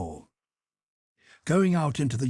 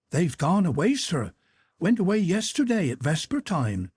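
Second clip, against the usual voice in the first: put-on high, kindly old-woman voice; cordial housekeeper; 7 semitones higher than usual. A narrator's reading. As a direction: break the news gently to the young man. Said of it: "said Mavra Kuzminichna cordially".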